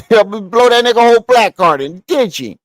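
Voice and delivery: laughing through the punchline. Shown as a demonstration. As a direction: repeat the joke while laughing.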